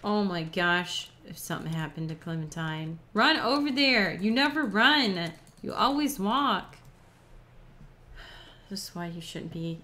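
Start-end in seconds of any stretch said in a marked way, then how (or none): 3.1-6.8 scolding. Real, not acted. Scolding the slow character.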